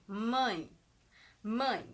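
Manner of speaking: mãe with a full nasal vowel. Shown as a demonstration. Teacher modelling the nasal diphthong in mãe. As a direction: push mãe through the nose. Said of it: "o som acaba saindo mais nasalizado".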